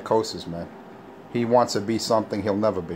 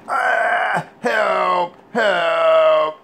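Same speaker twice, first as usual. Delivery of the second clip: mock yell for help; 8 semitones higher, 4 dB louder, much slower than usual. Imitating Richie yelling for help.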